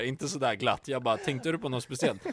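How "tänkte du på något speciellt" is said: cool challenge. Retold or imitated. Telling friends how coolly he confronted the stranger, cool understated challenge. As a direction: ask it coolly, glasses down. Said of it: "alltså jag var ändå cool".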